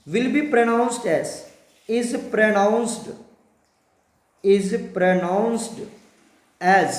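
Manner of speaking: drawn-out, very slow phrasing; slow dictation. Shown as a demonstration. Teacher dictating the naming rule very slowly. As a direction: stretch each word for the notes.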